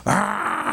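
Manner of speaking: drawn-out mock crying sound; imitated child's wail. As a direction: mimic a lost child starting to wail. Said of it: "하면서 소리를 막, 그, 내면서 울기".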